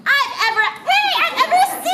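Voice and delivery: cracking up and can't finish; laughing. Acted. Breaks up laughing mid-line.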